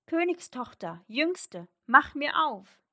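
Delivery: high, measured call, loudest at the end. A narrator's reading. Frog at the princess's door, calling out to be let in. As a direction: call through a closed door. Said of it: "klopfte es an der Tür und rief".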